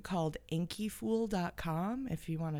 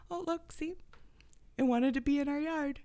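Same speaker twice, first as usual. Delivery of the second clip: excited; 8 semitones higher, faster than usual. Pretend. Pointing out tree returned.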